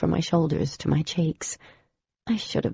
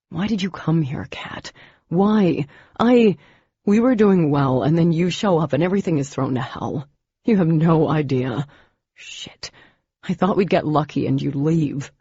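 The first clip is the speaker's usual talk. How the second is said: frustrated, louder outburst; angry; 5 dB louder than usual. Acted. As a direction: let the frustration spill out.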